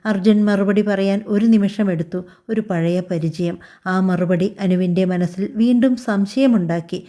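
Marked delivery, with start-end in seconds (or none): 2.5-3.6 hesitant reply. Acted. Husband evading his new wife's question, slow and hesitant. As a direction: hold back before each word.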